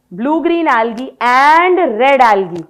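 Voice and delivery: slow, even dictation of a note. Shown as a demonstration. Teacher dictating notes for students to copy, slow and even. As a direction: spell it out slowly for students to copy. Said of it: "bracket में लिखो".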